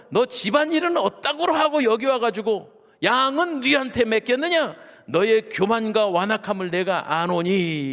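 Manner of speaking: high-pitched acted rebuke; angry scolding. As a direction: scold a kid brother in heated indignation. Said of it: "막내 동생을 향하여 노를 바라며". (화내며 동생을 꾸짖듯이)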